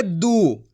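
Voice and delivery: दू with a long, held ऊ; खींचकर दू. Shown as a demonstration. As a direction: draw out the vowel of दू. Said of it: "खींच के पढ़ेंगे". (दू का ऊ लंबा खींचें)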